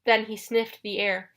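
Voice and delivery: ordinary delivery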